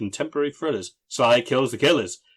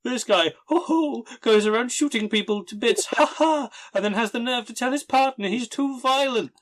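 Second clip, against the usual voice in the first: high-pitched laughing disbelief; laughing incredulously; 9 semitones higher than usual. Real, not acted. Mocking laughter at the line.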